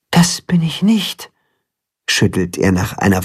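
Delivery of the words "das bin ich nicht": hushed, almost to himself; whispered. Acted. Chicken thinking, shaking his head.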